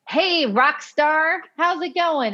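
high, drawn-out, sing-out hello; high-energy greeting. Retold or imitated. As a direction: imitate her excited, slow-stretched greeting. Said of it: "do you talk like this".

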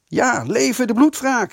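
loud, high-pitched rallying yell; yelled battle cry. A narrator's reading. Huib yells his support for revenge, shouted high and loud. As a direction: yell it out for the whole gang. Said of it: "gilde Huib Delfors".

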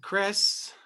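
talking to a ghost. Pretend. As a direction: call out to a spirit, pleading and eerie. Mock séance, calling to a spirit.

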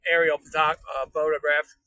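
put-on hillbilly drawl, chatty and folksy; hillbilly character. Livestreamer chatting from the road as a hillbilly, folksy put-on drawl. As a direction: play a rambling backwoods hillbilly. I need a break from the fucking hillbilly voice.

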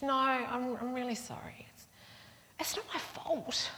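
high, plaintive imitation of a small boy; pleading child. Four-year-old insisting to the aunt, plaintively sorry. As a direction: whimper it like a sorry little kid. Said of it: "He goes".

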